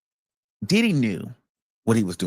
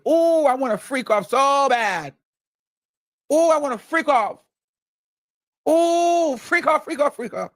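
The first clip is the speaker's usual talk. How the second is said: mock enthusiasm; 11 semitones higher than usual. A singer replying to a rapper on script, hammed-up eager. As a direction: overplay the eager girlfriend, breathless and sing-song.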